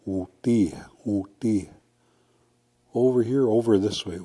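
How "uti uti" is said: uti ending in a short I sound; northern uti. Shown as a demonstration. Teacher contrasts northern uti with southern ote. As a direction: say uti, OO-tee. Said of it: "But northern, you'll hear".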